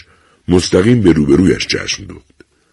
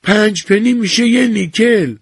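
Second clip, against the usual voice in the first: put-on higher, slow, dry old woman; curt, matter-of-fact; old woman answering the clerk dryly. A narrator's reading. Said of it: "با لحنی خشک گفت".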